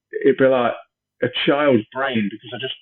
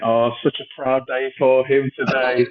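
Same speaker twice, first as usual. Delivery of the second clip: mock gushing parent; 4 dB louder than usual. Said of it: "when they pop up and you go".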